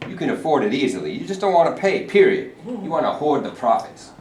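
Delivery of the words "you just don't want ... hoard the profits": indignant. Acted. Union man fires back at boss.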